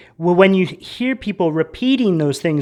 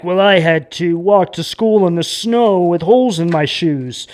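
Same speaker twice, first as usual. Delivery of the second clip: lightly voiced grumbling elder with the old snow story; a hint of a preachy parent reciting hardship; mock old-timer complaint. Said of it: "It's that old saying".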